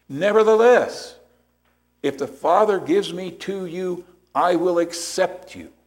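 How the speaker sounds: rising urgency on each nevertheless; fervent preacher voicing Christ; Christ's insistent words. Christ's words voiced with intensity.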